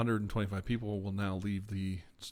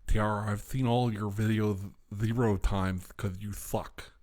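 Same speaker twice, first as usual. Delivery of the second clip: mocking fan; 7 dB louder than usual. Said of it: "There you go".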